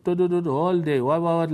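hammed-up babble of endless talk; mimicking nagging chatter. Preacher mimics a talkative wife's endless chatter, mock babble. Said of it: "like this".

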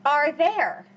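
speaking with hiccups; hiccuping between words. Real, not acted. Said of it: "I have the hiccups".

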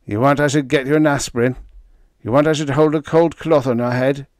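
fast, fussing Yiddish lilt; fussy Yiddish lilt. A narrator's reading. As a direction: fuss over him in a Yiddish lilt. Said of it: "he inquired solicitously".

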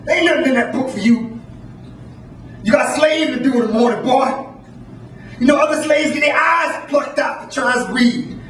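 a hint of the threatening master; stern master. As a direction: lecture the boy with menace. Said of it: "The master said".

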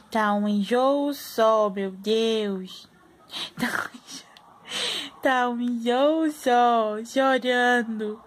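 slow drawn-out mock whine; mother voicing her fussy baby; whiny baby voice. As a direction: talk for the baby, mock crying.

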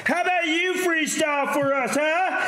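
high, defensive shouting; heated yelling. Real, not acted. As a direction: snap back at the critic. Defensive argument, high, loud.

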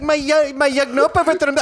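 high-pitched, aggrieved whine; whiny Brahmin guy. Retold or imitated. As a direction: wail it like a precious loss. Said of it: "He's like".

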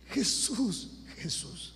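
high, slow, loud crying prayer; mother praying aloud for her son; mother's prayer. Retold or imitated. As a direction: cry out to Jesus, pitched high. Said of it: "me acuerdo su oración".

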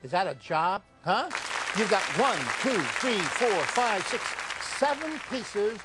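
pushy infomercial pitch; hard sell ad. Acted.

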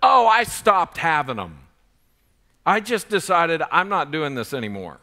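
friend's Southern drawl, kicking off loud. Retold or imitated. College friend answering a late-night question, Southern drawl. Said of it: "in his southern drawl that night".

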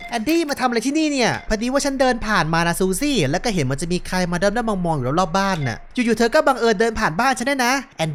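suspicious woman and pleading visitor; lightly acted doorstep dialogue. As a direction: play doubt, then urge her to believe. Voices Susie and visitor. (พากย์บทสงสัยและขอร้องให้เชื่อแบบเบาๆ)

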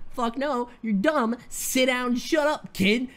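dismissive put-down, a bit high; lightly acted telling-off of a kid; mock scolding. Teammates shutting Danny down, mock scolding.

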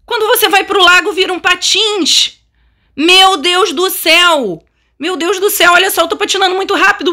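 high, giddy exclaiming; thrilled. Real, not acted. Player skating very fast shows viewers, thrilled. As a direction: gush high with delight, racing at the end.

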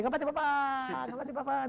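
mock rallying call, stretched at the end; imitated battle cry. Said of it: "siempre grita, es así como diciendo, "Ah, el ataque".

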